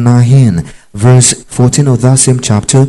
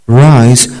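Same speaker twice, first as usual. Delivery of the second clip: loud command. Shown as a demonstration. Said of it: "a series of imperatives".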